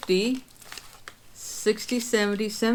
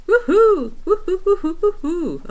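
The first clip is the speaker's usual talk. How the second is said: high, loud celebratory woohoos; excited whoops; 12 semitones higher, 7 dB louder than usual. Real, not acted. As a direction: cheer it out loud like a win. Celebrating savings milestone.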